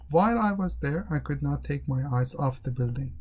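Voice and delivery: "While I was there" starts up, then levels out to "building"; monotonous. Shown as a demonstration. Teacher asking do you say it like this, monotone. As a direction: say "eyes off the building" on an unvarying note. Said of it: "Do you say it like this?".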